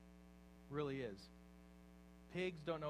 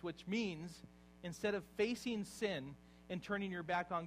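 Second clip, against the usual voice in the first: emphatic preaching; 3 dB louder than usual. Acted. Building sermon emphasis.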